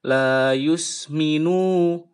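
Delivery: La yusminu with the nun stretched too long; deliberately wrong long La yusminu. Shown as a demonstration. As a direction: show the mistake by dragging the nun. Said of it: "itu salah".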